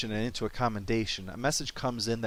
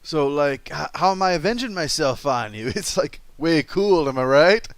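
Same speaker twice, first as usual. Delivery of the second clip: put-on valley girl voice; 2 semitones higher, 6 dB louder than usual. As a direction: play Nero as a chirpy valley girl. Mock valley-speak Nero.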